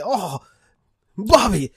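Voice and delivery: exasperated Texan dad sigh; drawn-out disappointed "Oh, Bobby."; Hank Hill. Pretend. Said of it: "He would say".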